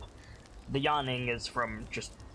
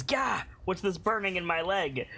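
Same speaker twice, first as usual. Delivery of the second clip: hammed-up pained yelp; 5 semitones higher than usual. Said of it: "And he says".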